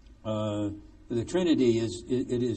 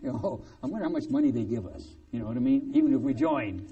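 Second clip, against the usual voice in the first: dry, mock-serious aside; sarcastic; 2 semitones lower, faster than usual. Real, not acted. Preacher mocking the church council with sarcasm. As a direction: say it with a wry, sarcastic edge. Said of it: "I'm being sarcastic here".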